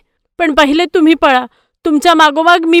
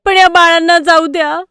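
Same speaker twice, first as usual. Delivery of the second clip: louder, higher desperate plea; pleading; 4 semitones higher, 4 dB louder than usual. Acted. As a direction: offer yourself to save the kids. Goat begs wolves for children. (आर्त विनवणी)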